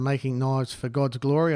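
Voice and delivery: ordinary talk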